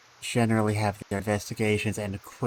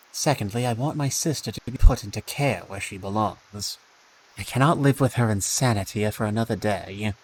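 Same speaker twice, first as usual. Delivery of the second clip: character voice; 4 dB louder than usual. Acted. Player voices own character.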